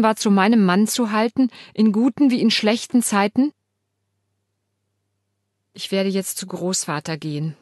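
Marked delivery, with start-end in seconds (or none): 5.7-7.6 croaky monotone. Acted. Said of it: "krächze ich monoton".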